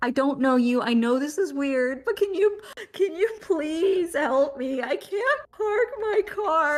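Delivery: put-on crying, frantic, high and tearful. Retelling asking two strangers in a parking garage for help, imitating crying while pleading. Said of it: "I was crying and I was like".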